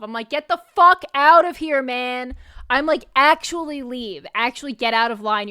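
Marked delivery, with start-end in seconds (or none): 0.3-2.3 loud, higher exasperated outburst; annoyed burst, punching the swear; pissed off. Retold or imitated. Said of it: "And I'm pissed off". 3.2-5.5 pissed off. Retold or imitated. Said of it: "And I'm pissed off".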